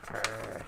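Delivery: low, soft mock growl. Reader joking about superhero glowering, mock growl. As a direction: growl softly in mock menace.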